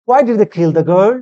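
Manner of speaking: slow model reading. Shown as a demonstration. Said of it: "teacher reads model sentence slowly".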